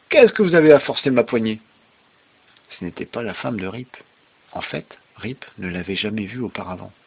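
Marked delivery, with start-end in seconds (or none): 0.1-1.6 raised, louder scolding question; furious. A narrator's reading. Woman catching Rip at her handle, furious. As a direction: accuse the intruder angrily.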